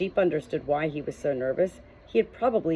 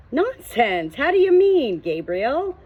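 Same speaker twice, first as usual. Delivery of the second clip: rising, higher and louder alarm; 8 semitones higher, 6 dB louder, slower than usual. A narrator's reading. Nervous Josh, alarmed when Gabriel mentions nonsense. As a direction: caught off guard, voice jumps up in alarm. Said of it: "Josh sounded alarmed".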